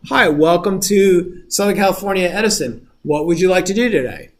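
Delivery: customer service bot. Retold or imitated. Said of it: "like a customer service".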